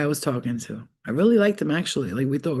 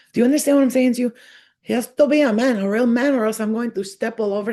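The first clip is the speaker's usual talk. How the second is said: emphatic; 6 semitones higher, 5 dB louder, faster than usual. Real, not acted. Emphatic rant about real man.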